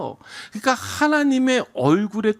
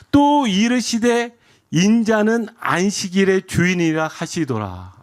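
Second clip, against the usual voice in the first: scripture reading; slower than usual. Acted. Pastor reading verse five to the congregation, slow and deliberate. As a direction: read it out with measured weight, settling down on the last word.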